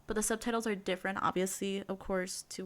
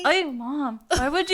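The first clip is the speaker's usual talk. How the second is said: high, loud, laughing protest; startled laughing protest; 5 semitones higher, 6 dB louder than usual. Real, not acted. To her friend after the scare, laughing high protest.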